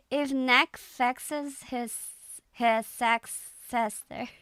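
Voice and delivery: slow Irish accent, retried; hesitant Irish accent take. Shown as a demonstration. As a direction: read it in an Irish accent again, slowly. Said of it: "I'm just reading it in an Irish accent".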